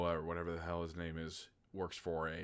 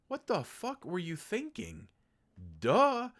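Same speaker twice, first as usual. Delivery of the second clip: high, incredulous mock outburst; mock exasperation; 10 semitones higher, 4 dB louder than usual. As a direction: scoff at him like he's an idiot. Reacting to character's stupidity.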